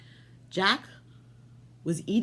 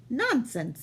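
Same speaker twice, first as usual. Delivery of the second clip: higher, lightly voiced wife; wife's voice; 6 semitones higher than usual. Wife dismissing the giant, lightly higher voice. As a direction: brush him off, a bit higher. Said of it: "said his wife".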